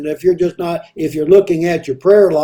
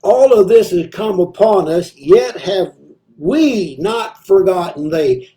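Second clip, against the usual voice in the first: slow, deliberate reading of the verse; slowly. Shown as a demonstration. Preacher rereading the psalm to his church, slowly. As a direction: draw each word out for the congregation. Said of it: "let me read it slowly".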